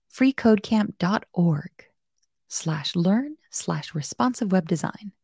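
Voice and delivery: slow, cheerful robot reading a URL; happy robot voice. Pretend. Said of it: "in a happy robot voice".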